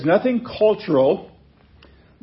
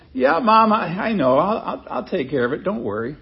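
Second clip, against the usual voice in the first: gentle; 4 semitones higher than usual. Pretend. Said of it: "he could have said it very gently".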